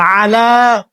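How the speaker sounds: আলা starting with a throaty ʿayn; আলা with a clear ʿayn; correct Arabic pronunciation. Shown as a demonstration. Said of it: "আইন উচ্চারণ করতে হবে".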